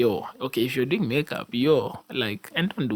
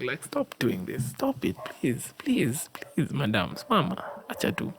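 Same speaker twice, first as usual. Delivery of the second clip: slow, drawn-out playful begging; mock pleading; 4 dB quieter, slower than usual. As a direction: plead with them in mock exasperation, dragging it out. Pleading with women over makeup.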